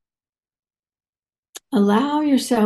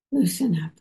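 whisper; 2 semitones lower, faster than usual. Real, not acted. Meditation guidance, voice drops.

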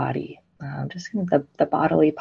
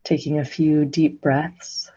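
unhurried meditation guidance with long silences; guided meditation. Real, not acted. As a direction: guide listeners gently into stillness, phrase by phrase.

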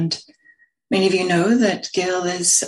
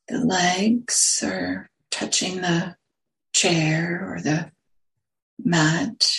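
unhurried meditation guidance, long silences between phrases; guided meditation; slower than usual. Real, not acted. Teacher settling a group into sitting posture, guided meditation. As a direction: guide them gently into the sit, phrase by phrase.

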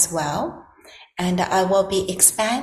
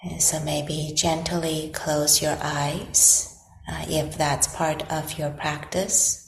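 guided meditation. Acted. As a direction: gently guide them into stillness, leaving long silences between phrases.

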